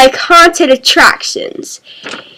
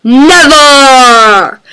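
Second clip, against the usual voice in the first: tag; 3 dB louder than usual. Pretend. Emphatic answer to trick-or-treat question.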